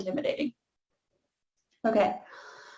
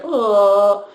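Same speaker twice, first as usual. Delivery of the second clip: exaggerated open oh; 2 semitones lower, 5 dB louder than usual. Shown as a demonstration. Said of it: "really exaggerated".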